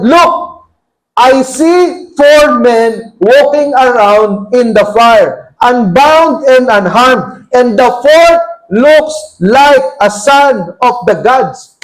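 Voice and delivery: amazed king. Acted. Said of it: "leaped to his feet in amazement".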